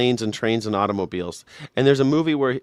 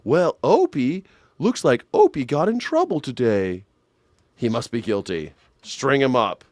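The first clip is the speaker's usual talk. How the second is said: Andy Griffith Show character. Acted. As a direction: play a folksy TV lawman passing judgment. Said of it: "like, the Andy Griffith Show?".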